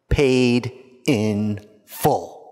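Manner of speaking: very slow, word by word; solemn proclamation. Shown as a demonstration. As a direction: weigh each word, pausing between them. Translating Christ's last word, solemnly.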